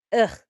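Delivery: short groan of discomfort; a quick noise of discomfort; disgusted "ugh". Retold or imitated. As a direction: let out a brief uneasy ugh. Imitates the feeling of discomfort.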